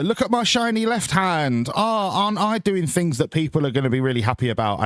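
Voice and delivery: a politician showing off the shiny left hand; mock politician. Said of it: "Andy Burnham's doing the".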